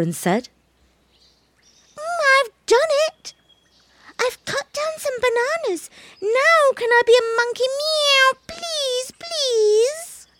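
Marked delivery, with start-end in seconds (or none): 2.0-10.3 very high, excited kitten voice; proud little cat begging again; eager kitten. Acted. Baby cat proudly begs the monkey, very high and eager.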